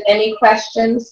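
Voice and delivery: slow, measured presenter's question to the class; professional speaker. Retold or imitated. Boy addressing the kids like a professional presenter, slow and formal. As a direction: ask it like a polished pro speaker. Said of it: "does his talk like he's a professional".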